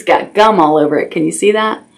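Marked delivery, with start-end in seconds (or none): 1.1-1.8 soft unvoiced whisper. Real, not acted. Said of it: "whispers to children".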